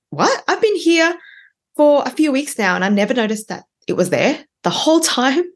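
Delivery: sudden high amazed realization; surprised. Retold or imitated. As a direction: replay the moment you noticed it. Retold realization at work.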